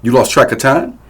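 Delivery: high, loud mocking shout; angry yelling. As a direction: throw her words back furiously. Abusive father mocking.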